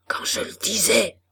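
tense, whispered aside; murmur. A narrator's reading. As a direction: whisper it as an I-told-you-so. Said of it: "murmura Maheu". (murmure chuchoté)

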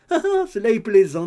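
high, loud amused laugh through the words. A narrator's reading. Landlady laughing at the couple's secret, loud and high.

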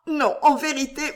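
put-on distressed young woman. A narrator's reading. Éléonore voiced.

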